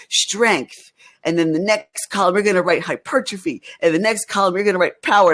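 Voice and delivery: put-on Southern accent. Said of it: "he had this, like, Southern accent".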